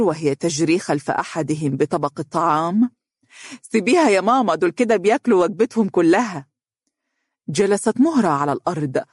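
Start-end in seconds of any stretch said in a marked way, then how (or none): 3.6-6.5 raised, higher voice mid-chase; lively, higher-pitched daughter's protest; busy mother. Acted. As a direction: call out lightly to your mother over the children. Mother calling while chasing her child.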